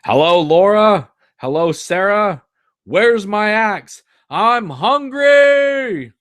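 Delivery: high, loud, slow booming giant; big giant voice. Acted. Father pretends to be a giant at dinner, booming giant voice. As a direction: play the giant for your family, stretching every word. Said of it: "big, giant voice".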